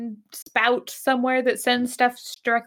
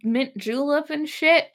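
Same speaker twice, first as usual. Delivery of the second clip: mock Southern drawl. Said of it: "Like a thick Southern drawl".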